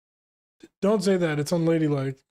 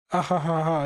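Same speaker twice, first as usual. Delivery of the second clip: basic anime laugh. Acted. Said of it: "He got the same laugh".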